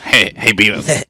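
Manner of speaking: Butthead impression. Quoting Beavis and Butthead.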